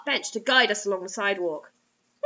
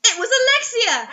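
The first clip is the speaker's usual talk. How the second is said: dramatic reveal; 10 semitones higher, 7 dB louder than usual. Acted.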